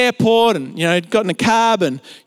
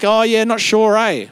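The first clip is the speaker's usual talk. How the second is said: casual bogan Aussie with a tacked-on eh; broad bogan Australian accent; 2 semitones higher than usual. Retold or imitated. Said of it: "that is a bogan accent".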